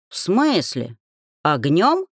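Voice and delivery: amazed bass. A narrator's reading. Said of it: "изумлённо пробасил Велька".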